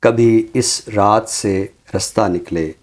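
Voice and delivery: slow, lingering verse delivery; poem recitation. Acted. Poet finishing his recited couplet on air, slow and lingering. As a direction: draw out each phrase of the couplet.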